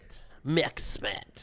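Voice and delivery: put-on slow, drawn-out Irish accent. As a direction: say the name like an Irishman. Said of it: "I was trying to do, like, an Irish accent".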